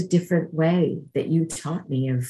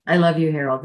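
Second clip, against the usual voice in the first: louder, emphatic love; warm; 4 dB louder than usual. Retold or imitated. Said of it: "I said".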